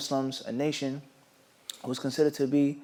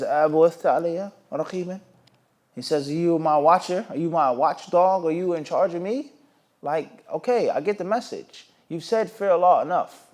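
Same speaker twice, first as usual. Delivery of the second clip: frustrated retort; 4 semitones higher, 5 dB louder than usual. Retold or imitated. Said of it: "the man became frustrated, he became upset".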